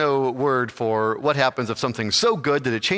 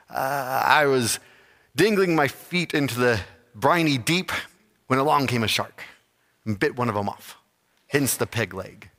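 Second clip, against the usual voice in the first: pirate voice. Acted. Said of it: "in his piratey voice".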